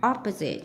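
"opposite" stressed on OP; stress on first syllable. Shown as a demonstration. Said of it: "nhấn âm một". ("opposite" nhấn mạnh âm tiết đầu)

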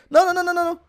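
rapid high loud nos; panicked nos. Real, not acted. Gamer panicking at the screen, high loud nos. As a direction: panic as it slips away. About to fail the level.

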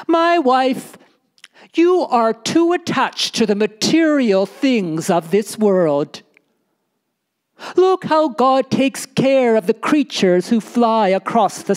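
a storyteller voicing a pious, lecturing Bedouin; lecturing husband. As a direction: lecture your wife about worldly things. Bedouin lectures his wife.

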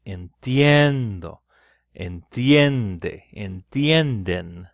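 "entiendo, entiende, entienden" slow, with each "tien" long and loud; stressed stem. Shown as a demonstration. Teacher listing forms that split into I E, stress on each "tien". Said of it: "When it gets the stress".

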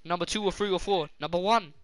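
a touch of Super Wog shouting number one; quoting a comedy character to a friend; Super Wog catchphrase. Retold or imitated. Joking to his friend, a touch of Super Wog. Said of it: "I got that off Super Wog".

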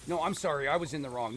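lightly acted insistent apology; mock apology argument. Canadian claiming blame in a polite argument, lightly acted apology. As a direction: mildly insist on taking the blame. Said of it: "we have arguments over".

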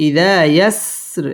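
ইদা with a drawn-out final a; stretched ইদা, thin r ending ইয়াসর; one-alif lengthening. Shown as a demonstration. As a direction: hold the last vowel of ইদা one beat. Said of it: "এক আলিফ টেনে পড়তে হবে".

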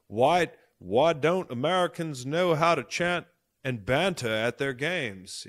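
attempted British accent drifting toward Australian; bad British accent. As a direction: badly fake a British fan's accent. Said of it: "I can't even do the fucking British accent".

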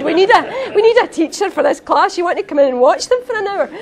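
high, loud offhand request; casual recruiter. Retold or imitated. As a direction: toss it off like a passer-by. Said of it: "It sounds like somebody just".

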